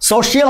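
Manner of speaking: "সোশ্যাল" as three syllables, "so-shi-al"; wrong pronunciation. Shown as a demonstration. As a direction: add an "i" inside "সোশ্যাল". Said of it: "হবে না কিন্তু".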